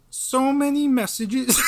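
high voice cracking into laughter; failing to hold a crying voice; laughing through mock crying. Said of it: "Like Jordan Peterson, crying if I can".

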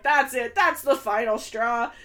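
loud mock outburst; retold losing it. Podcaster retelling the man losing it, loud mock outburst. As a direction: act out someone at the end of their rope. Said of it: "loses it".

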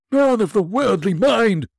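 high, loud wailing ghost; unearthly voice. Acted. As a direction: wail like a tormented spirit. Ghost speaks, far higher voice.

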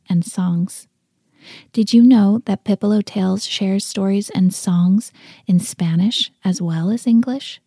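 clear, forceful podcast promo; promo read. Real, not acted. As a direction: step out of the tale and pitch the website. Sponsor message break in story.

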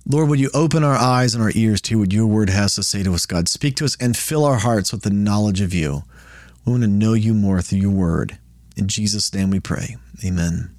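low, even praying voice; prayer. Real, not acted. Leads an opening prayer.

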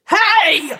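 sharp high hey; surprised shout. Acted. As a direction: call out in surprise. Sprite shouts after rabbit.

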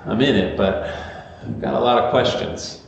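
imitating a halting, unsure admission; mildly halting, as if struggling to explain; stammering, stumbling. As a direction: act out fumbling for words, with hesitant pauses. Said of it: "You sort of stammer and stumble and say".

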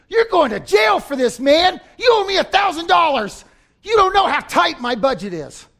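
loud, high mock-threatening demand; bully a friend over a small debt; angry creditor. Forgiven man threatens his buddy, loud mock anger. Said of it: "And he says".

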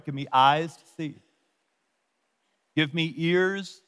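slow, with pauses inside each phrase; said slowly. Shown as a demonstration. Preacher repeats a short prayer for the congregation to learn, slowly. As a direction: draw out each line, pausing before its last words. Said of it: "I'll say it slowly".

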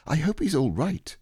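put-on high boy's voice cutting in; anxious Christopher Robin. Boy interrupting Owl about Pooh, high and anxious. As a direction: break in with a high, worried question.

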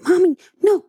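put-on high whiny little boy protest; sleepy child whine. Mother imitating her sleeping son's high whine.

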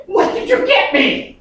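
put-on high, eager little kid asking for a present; eager child voice. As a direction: squeal it like a six-year-old. Child greeting daddy, voiced.

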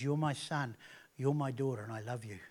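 a quiet, tender God the Father; tender father's voice. Acted. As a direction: say it softly, like a father reassuring his child. You hear a voice that says.

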